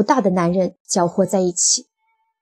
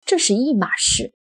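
mildly stern, pitched higher; serious correction; 5 semitones higher than usual. A narrator's reading. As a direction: correct him gravely at normal volume. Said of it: "赫顿严肃地说".

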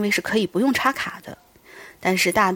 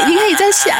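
high, loud eager urging; excited; 12 semitones higher, 6 dB louder than usual. Real, not acted. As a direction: push them on excitedly. Urging partner to redo scream.

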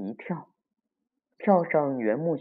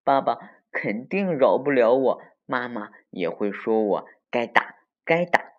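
gleeful little schemer, voice swinging up; delighted; 3 dB louder than usual. Acted. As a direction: relish it like a naughty child. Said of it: "他高兴极了".

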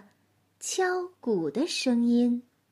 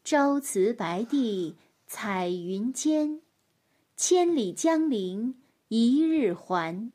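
slow, measured poem recital; poem recitation; 3 semitones lower, slower than usual. Acted. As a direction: recite each line slowly. Reciting poem third time.

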